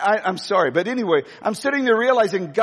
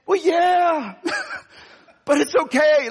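laughing yes; 9 semitones higher, slower than usual. Retold or imitated. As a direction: blurt it out, then laugh it off. Telling big man he did wrong.

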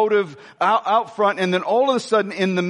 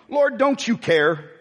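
offended plea; 3 semitones higher, slower than usual. Retold or imitated. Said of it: "Can you hear the offense?".

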